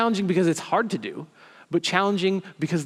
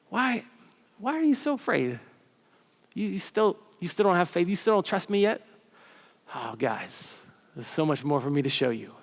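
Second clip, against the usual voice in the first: loving friend. Retold or imitated. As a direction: coax them like a patient friend. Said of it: "more of a tone of, like, a loving friend".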